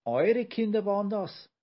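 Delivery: high, loud disbelieving question; incredulous question. A narrator's reading. Giant learns the tiny Olchis are parents, incredulous question. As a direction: ask it pitched right up, unable to believe it. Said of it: "fragte Willi ungläubig".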